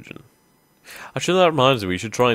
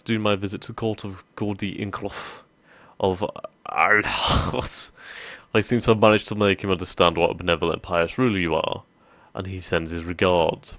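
a bad, hammed-up French accent reading the courtier's report; terrible French accent. Courtier reports to his liege in a bad French accent. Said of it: "I'm doing a terrible French accent".

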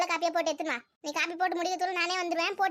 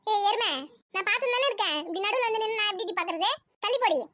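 raised-pitch sibling nagging; irritated scolding; 3 semitones higher than usual. Acted. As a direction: tell off whoever blocks your view. Scolding sister blocking the TV.

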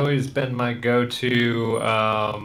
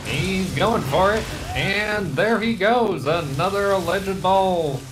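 higher, slow 1920s radio announcer; old-timey radio announcer; 5 semitones higher than usual. Pretend. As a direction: call the play like a vintage broadcaster. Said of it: "I love old-timey radio voice".

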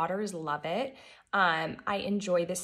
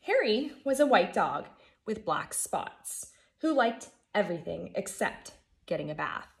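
put-on lively storybook reading for kids; gentle read-aloud for a class; reading to children. A narrator's reading. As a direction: read it like story time for first graders. Teacher reads picture book aloud.

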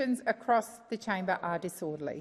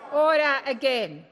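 shouting order; 4 semitones higher, 5 dB louder than usual. Real, not acted. Chair calls chamber to order.

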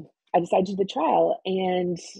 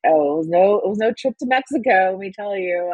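joking; 3 semitones higher, 4 dB louder than usual. Retold or imitated. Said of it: "I always joke that".

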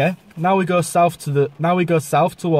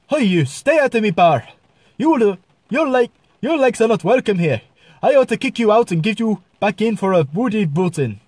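high-pitched, scolding Irish voice; Irish accent; 6 semitones higher than usual. Shown as a demonstration. Irish bar owner throwing someone out, scolding Irish accent. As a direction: order them out in broad Irish. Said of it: "This is a one type of Irish".

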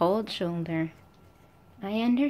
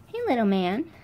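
pet talk; 3 semitones higher, 4 dB louder than usual. Real, not acted. Cooing at the pet.

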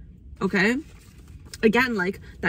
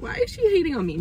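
imitating a hurt viewer; 9 semitones higher, faster than usual. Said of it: "watching this being like".

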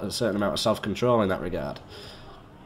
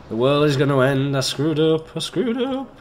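mock panic; 3 semitones higher, 5 dB louder than usual. Mock panic over misplaced bin.

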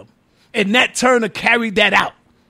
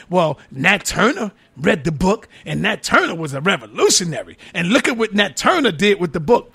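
lower, softer voice quoting a foolish argument; mocked naive objector; 6 semitones lower, 4 dB quieter than usual. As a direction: lightly put on a dim objector, pitched down. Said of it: "foolish Negroes out there saying".

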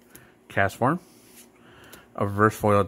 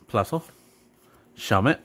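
bored recitation. Real, not acted. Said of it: "Why do I sound bored?".

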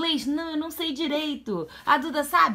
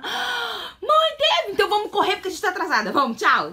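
daughter's voice; 7 semitones higher, 5 dB louder than usual. Retold or imitated.

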